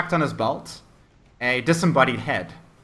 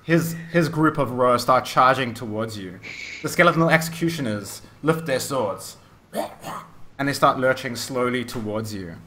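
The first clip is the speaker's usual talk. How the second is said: energetic battle scene-setting; game master narration. Acted. Game master describes undead charging the players, dramatic narration. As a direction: drive the action forward with dramatic emphasis.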